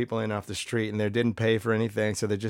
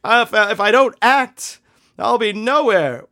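higher, louder, pleading voice of a desperate actor; imitating a desperate wannabe, higher and louder; mock desperate actor; 8 semitones higher, 8 dB louder than usual. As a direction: play the panicked actor begging for his last chance. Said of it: "and he's like".

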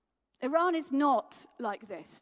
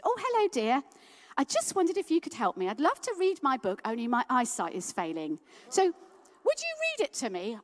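lightly voiced old lady; 4 dB louder than usual. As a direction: ask kindly like a frail grandmother, pitched up. Old lady in Iran asks.

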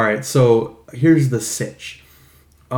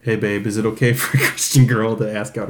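lady killer voice; 4 semitones lower than usual. Pretend. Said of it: "like, a lady killer, deep macho voice".

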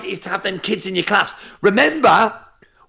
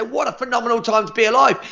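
higher, upbeat call to the class; dojo announcement; 4 semitones higher than usual. Retold or imitated. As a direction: announce it to the students with energy. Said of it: "I say it in my dojo".

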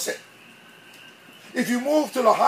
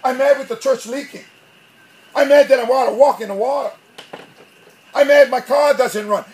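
louder mock complaining, one gripe after another; acted angry griping; 3 semitones higher, 5 dB louder than usual. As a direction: gripe as if everything annoys you. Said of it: "everything becomes angry".

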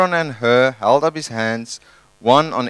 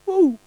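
high woo. Acted. Mocking Moses' easy job.

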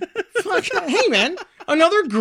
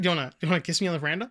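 movie quote impression; much faster than usual. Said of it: "What was it?".

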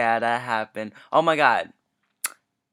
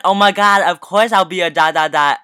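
louder, higher playful gush; joking mock excitement; 3 semitones higher, 6 dB louder than usual. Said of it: "in a jokingly way".

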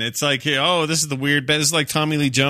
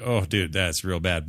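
dismayed reaction; 6 semitones lower, 5 dB quieter, slower than usual. Acted. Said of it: "You just go".

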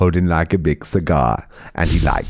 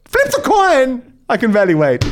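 eager cry. Real, not acted. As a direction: call it out with mock suspense. Eager call to flip coin.

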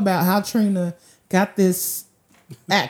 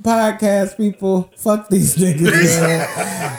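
slow, put-on British accent; slower than usual. Shown as a demonstration. Host telling off his podcast people in a put-on British accent. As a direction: address listeners in a mock British accent, unhurried. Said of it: "Let me hear your British".

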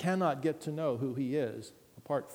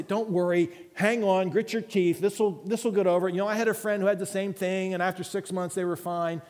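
breezy, louder brush-off reassurance; glib false comfort; 4 semitones higher, 5 dB louder than usual. Pretend. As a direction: cheerfully dismiss their pain. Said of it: "Not say".

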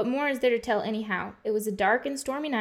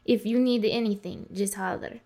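waitress with a put-on Russian accent; Russian-accented English. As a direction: fake a Russian accent for tips. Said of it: "What does a Russian accent have to".

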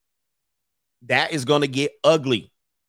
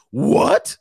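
sudden high squeak of disbelief; surprised what; 8 semitones higher, 3 dB louder than usual. Pretend. Latecomer hearing the money is gone, shocked squeak. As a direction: yelp it like you just found out.

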